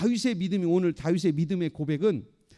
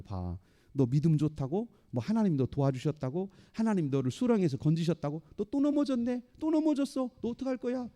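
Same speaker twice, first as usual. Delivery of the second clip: mocking. Devil taunting a believer who has fallen again, mocking. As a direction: needle the fallen one in a rising jeer. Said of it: "그러면서 조롱하는 거예요".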